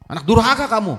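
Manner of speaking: high, loud cry of disgust; angry insult. Acted. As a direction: spit the insult at the son. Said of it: "Tetangganya marah". (teriakan marah tetangga)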